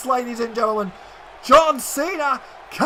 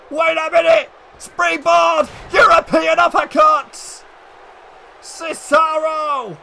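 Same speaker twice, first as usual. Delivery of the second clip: excited call; 3 semitones higher, 4 dB louder than usual. Real, not acted. Commentator calls a springboard move.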